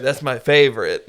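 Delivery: a hint of smug try-hard; cringey James impression. Podcaster mimics the Amish overseer, cringey theater-kid voice. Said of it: "sounds like John Mulaney, but in a cringe way".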